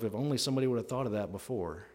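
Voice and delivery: dry, quick sarcastic aside; understated mock wish; somewhat sarcastic. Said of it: "I'm being somewhat sarcastic there".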